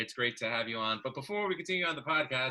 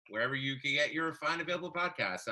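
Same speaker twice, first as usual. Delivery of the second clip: ordinary talk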